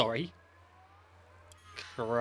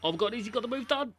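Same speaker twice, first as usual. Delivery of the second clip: excited shout; 10 semitones higher, 5 dB louder than usual. Real, not acted. Teammate completes overtake, celebrating.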